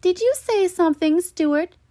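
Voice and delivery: teacher questioning a student; stern teacher. Acted. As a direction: call out the boy in class. Teacher questions Stuart in class.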